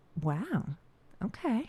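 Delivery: soft, flirtatious tone. Asked to say a line in a flirty way, the speaker says it flirty. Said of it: "let me hear you say uh, one that's flirty".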